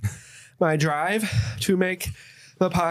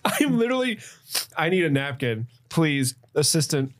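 mouth on fire. Real, not acted. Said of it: "leaking out of every orifice on my face".

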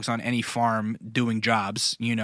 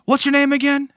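high, raised imitation New York voice; New York holler; 14 semitones higher, 5 dB louder than usual. Shepherd asking the learner's name, high mock holler. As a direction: call it out high, imitating an excited New Yorker. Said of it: "screaming with a New, New York accent".

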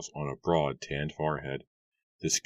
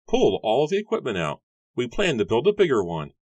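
much higher, put-on voice for the farmer; gruff farmer Matthew; 8 semitones higher, 6 dB louder than usual. A narrator's reading. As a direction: play the grumpy farmer, pitched way up. Matthew gives orders.

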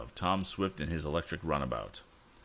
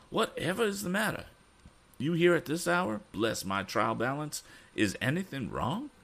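put-on high, fussy old gentleman voice; a flustered old man, pitched much higher; excited Mr. Damon; 12 semitones higher than usual. A narrator's reading. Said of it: "exclaimed Mister Damon".

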